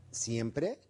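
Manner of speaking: "siempre" echoed back low, rising at the end; low questioning tone. Shown as a demonstration. Coach challenging "always" with a low questioning echo. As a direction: toss "siempre" back low, gently doubting. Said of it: "con un tono bajo".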